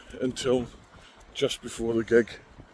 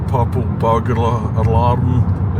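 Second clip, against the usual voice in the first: tricky Scottish phrase; 6 dB louder, slower than usual. Shown as a demonstration. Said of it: "you can't say in a Scottish accent".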